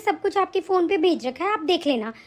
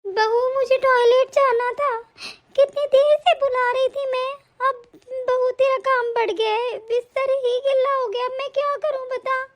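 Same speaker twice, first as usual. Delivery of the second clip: put-on old grandmother; 5 semitones higher than usual. Grandmother calls daughter-in-law.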